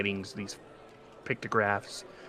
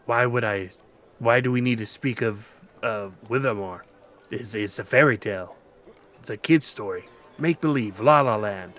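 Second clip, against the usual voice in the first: scoffing; 7 dB louder than usual. Acted. GM voices Funda scoffing.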